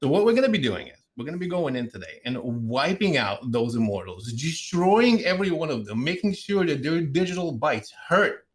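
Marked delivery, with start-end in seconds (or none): none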